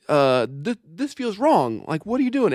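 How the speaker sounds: a hint of a flustered father; imitating a worried dad. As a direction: play a dad who's uneasy but unsure. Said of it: "he's like".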